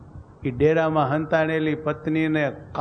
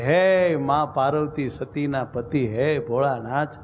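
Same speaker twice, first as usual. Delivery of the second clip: tearful prayer. Acted. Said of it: "નારી રોવા માંડી ગઈ".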